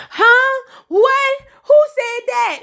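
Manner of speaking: high, hammed-up shocked denial; mock surprise. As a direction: play innocent, squeaking in disbelief. Zane playing dumb, voiced.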